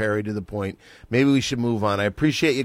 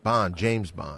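Sean Connery; 4 semitones lower, 4 dB quieter, much slower than usual. Acted. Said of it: "Do your Sean Connery".

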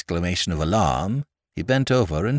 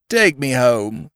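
tipsy whimper; 4 semitones higher, slower than usual. Acted. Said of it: "cried the Honourable Freddie".

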